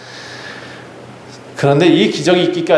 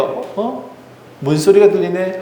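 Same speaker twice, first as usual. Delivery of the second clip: put-on puzzled child's little "어? 어?"; a small child hearing a knock, curious; surprised child; 4 semitones higher than usual. Child Rhoda hears the door. (문소리에 놀란 아이 로데가 갸웃하며)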